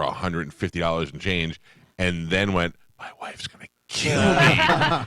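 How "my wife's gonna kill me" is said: high, drawn-out comic panic; dreading the wife, played for laughs; mock dread. Husband confessing a pricey food order, mock dread.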